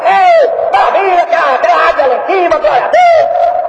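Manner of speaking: exaggerated ecstatic prayer, laughing; mock flowery prayer. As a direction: parody the over-decorated pray-er. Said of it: "Não inventa oração".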